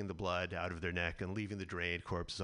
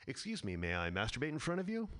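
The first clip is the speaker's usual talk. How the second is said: lightly voiced polite comedian; a hint of a meek request; Louis C.K. impression; 3 semitones higher than usual. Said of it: "celebrity impression of comedian Louis C K".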